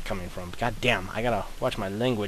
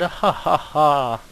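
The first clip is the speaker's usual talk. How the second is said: higher, louder laugh; 4 semitones higher, 3 dB louder, slower than usual. Real, not acted. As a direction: laugh out loud at them. Laughing at fleeing enemy.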